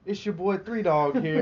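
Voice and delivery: slow, hyped radio host voice; Three Dog radio DJ. Pretend. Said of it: "I'm trying to be like Three Dog".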